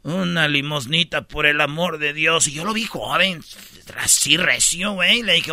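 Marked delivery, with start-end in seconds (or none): 0.0-2.5 soft slow begging whine; pleading beggar. Retold or imitated. Beggar on the sidewalk asks for change, soft slow pleading. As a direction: beg for a coin, slow and soft.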